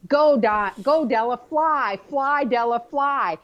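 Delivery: high, tearful cries of go and fly; calling her off, crying and laughing; high-pitched tearful send-off. Retold or imitated. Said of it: "I'm crying, and I'm going".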